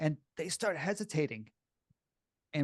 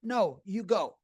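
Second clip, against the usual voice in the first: mock polite insisting; 4 semitones higher, slower than usual. Strangers insisting again.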